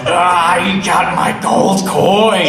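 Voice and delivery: high, slow put-on cry of dawning outrage; mock realization. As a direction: act the moment you realise you've been had. Realising he was scammed.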